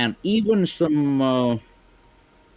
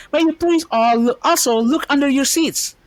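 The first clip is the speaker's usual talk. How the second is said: high loud announcer call; fighting game announcer; 5 dB louder than usual. Acted. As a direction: boom it over the stadium. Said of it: "okay, this is gonna sound funny".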